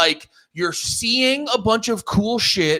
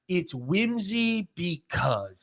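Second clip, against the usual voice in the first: mock explanation; 7 dB quieter, much slower than usual. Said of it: "I go".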